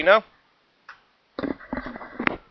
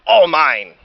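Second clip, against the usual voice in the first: sighed; 3 semitones higher, 8 dB louder than usual. Acted. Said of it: "hugged all the toys and sighed".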